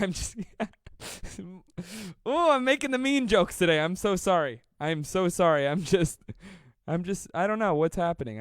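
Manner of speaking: can't stop laughing while apologizing; laughing fit. Real, not acted. Cracking up over his mean jokes.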